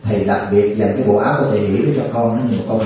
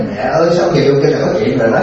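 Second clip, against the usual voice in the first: half-sung, lightly mocking imitation; lilting sing-song quote; 2 semitones higher than usual. Monk retelling a nun's sing-song call to an elder. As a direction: lilt it like a cheeky sing-song. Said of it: "Diệu Danh mà vô mà ông nói".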